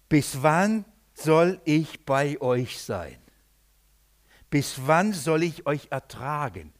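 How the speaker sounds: slow, drawn-out weary reproach; great disappointment. Retold or imitated. Jesus asks how long he must bear them, disappointed. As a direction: voice Jesus' disappointment, word by heavy word. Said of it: "da klingt's eine große Enttäuschung".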